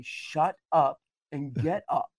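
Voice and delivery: slow, measured stern command; even sterner. Retold or imitated. Holy Spirit answering the preacher's complaints, very stern. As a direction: space the words out as a grave order. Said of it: "spoke even more sternly to me that time".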